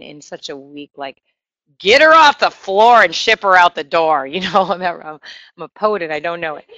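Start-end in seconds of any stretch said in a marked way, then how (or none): 1.8-4.3 louder, mock-dismissive rhyme; dismissive world. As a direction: toss it off as a brisk brush-off. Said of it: "like the world likes to portray somebody who's crying".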